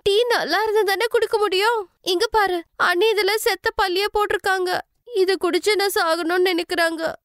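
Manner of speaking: sister-in-law accusing Alka before her mother; outraged sister-in-law. Acted. Kavya fakes outrage.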